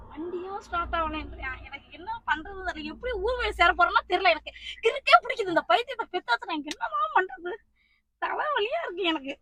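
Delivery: real upset wail, rising in pitch; tearful complaint. Real, not acted. Pranked mother laments the stalled car, tearful and exasperated. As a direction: lament helplessly, close to crying. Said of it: "நீ ஏம்மா அழுவுற?".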